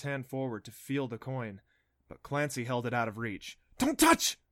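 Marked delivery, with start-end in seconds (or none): 3.8-4.4 high squeaky cry; squeak. A narrator's reading. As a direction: squeak it out in alarm. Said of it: "she squeaked".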